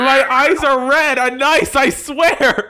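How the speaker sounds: high, sweet put-on creepy girl voice; mock yandere girl. Streamer voicing the video's yandere girl, high and sugary.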